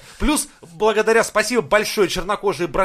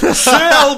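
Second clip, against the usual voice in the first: Shall, high, loud, drawn out; Shall stressed; 9 semitones higher, 9 dB louder than usual. Retold or imitated. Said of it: "Я ему написал".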